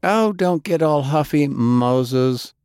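cold, high-pitched put-down; coldly. Acted. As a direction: cut him off with ice. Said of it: "Delilah said coldly".

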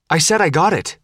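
sharp irritated snap; snapped. Acted. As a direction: bite it off, annoyed. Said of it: "Faith snapped".

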